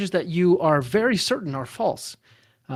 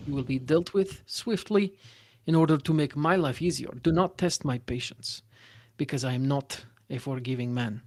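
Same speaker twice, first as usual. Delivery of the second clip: stern warden. Acted. The warden warns new prisoners, lightly voiced and stern. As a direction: lay down the rules like a proud, cold jailer.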